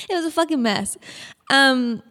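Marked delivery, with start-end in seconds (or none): 0.1-1.0 laughing it out; laughing while telling about the dog mess. Real, not acted. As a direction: laugh through the line.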